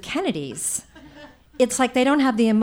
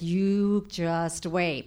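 slow, quiet menace through a smile; aunt quietly threatening the kids, slow and menacing; smiling threat; 4 semitones lower, 5 dB quieter, much slower than usual. Retold or imitated. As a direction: promise punishment under your breath. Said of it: "when they smile at us, it's like".

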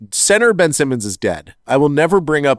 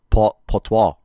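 French accent. Shown as a demonstration. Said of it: "I'm trying to work on my French accent".

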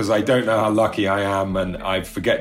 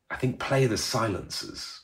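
pretentious; 2 semitones higher, 7 dB quieter, slower than usual. Retold or imitated. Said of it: "incredibly pretentious, stupid direction".

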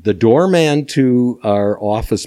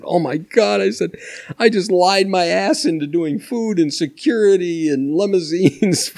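excited; 9 semitones higher than usual. Retold or imitated. Retelling panic after lying to promoter.

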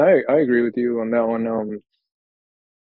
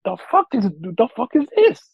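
retold disbelief; 9 semitones higher than usual. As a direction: act out staring at the screen in disbelief.

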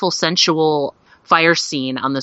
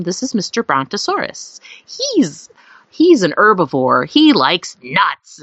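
mock teacherly explaining; 2 semitones higher than usual. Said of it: "she was explaining to him".

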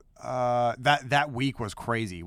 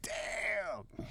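stunned reaction; 10 semitones higher, 10 dB quieter than usual. Retold or imitated. Everybody's stunned reaction retold.

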